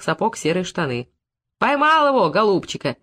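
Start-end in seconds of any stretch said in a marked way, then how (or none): 1.6-3.0 triumphant cry. Acted. Stableman triumphant over catch.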